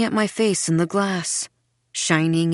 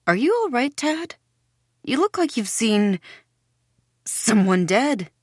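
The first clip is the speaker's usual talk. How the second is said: much higher, sing-song concern; bright false cheer, pitched way up; 5 semitones higher than usual. A narrator's reading.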